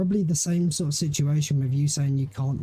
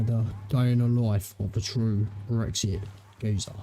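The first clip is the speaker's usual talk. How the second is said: mock trailer narrator; 4 semitones lower than usual.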